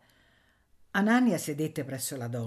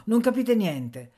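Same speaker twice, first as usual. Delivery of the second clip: lento rimprovero, alto e forte; irritato; 6 semitones higher, 7 dB louder, slower than usual. A narrator's reading. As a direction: scandisci con irritazione, a voce alta. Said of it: "disse Anania irritato". (irritato, lento e forte)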